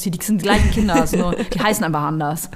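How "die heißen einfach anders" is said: laughing through the words; words breaking into a giggle; stifled giggles. Real, not acted. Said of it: "Hör auf zu lachen". (unterdrücktes Kichern)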